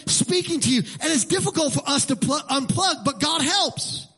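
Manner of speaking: high, urgent pulpit delivery; preaching. Acted. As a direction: press the exhortation home with rising pitch. Preaches at raised force.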